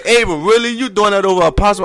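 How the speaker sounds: teasing Jada. Retold or imitated. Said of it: "And Jada said".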